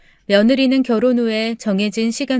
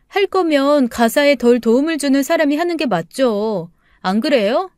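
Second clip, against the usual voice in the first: put-on higher-pitched, challenging young wife; indignant daughter-in-law; 3 semitones higher than usual. Daughter-in-law disputes housework with mother-in-law, indignantly challenging. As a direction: fire indignant questions back, voice raised in pitch.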